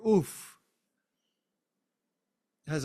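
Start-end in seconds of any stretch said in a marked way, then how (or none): 0.1-0.5 demo oof. Shown as a demonstration.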